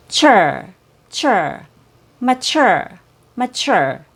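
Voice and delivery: "chur" drilled, then "mature" with CH. Shown as a demonstration. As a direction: teach the CH inside "mature". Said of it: "It has a C H sound".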